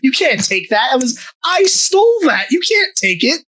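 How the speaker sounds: hammed-up sulky claim to the stolen money; mock indignant thief. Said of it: "he goes".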